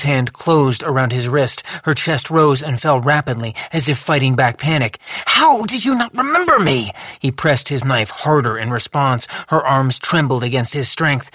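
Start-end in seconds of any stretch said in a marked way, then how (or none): 5.3-6.9 high, anguished question; distressed. A narrator's reading. Lou to Boz, high, anguished. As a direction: heartbroken disbelief.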